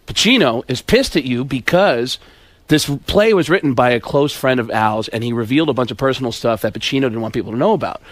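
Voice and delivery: low, hushed confiding leading man; lightly voiced impression, low and measured; Alec Baldwin. Comic retelling Baldwin's gossip about Pacino, low confiding voice. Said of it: "So Alec Baldwin says".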